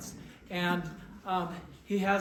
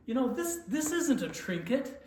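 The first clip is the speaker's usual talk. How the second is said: higher, building louder punchline; manager's triumphant verdict, hammed up and louder at the end; punchline delivery; 7 semitones higher, 6 dB louder than usual. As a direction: sell the punchline with a big lift.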